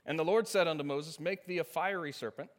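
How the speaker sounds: measured formal Bible reading; scripture reading. Acted. Pastor reads Numbers twenty-one to the congregation, formal and measured. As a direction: read the King James text with dignity.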